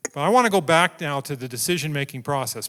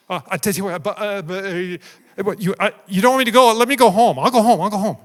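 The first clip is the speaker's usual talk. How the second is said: higher, louder, rushed pleading to go home; Balaam begging the angel to let him turn back, higher and louder; panicked backpedalling; 4 semitones higher, 8 dB louder than usual. Retold or imitated. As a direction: scramble to back out, terrified of the angel.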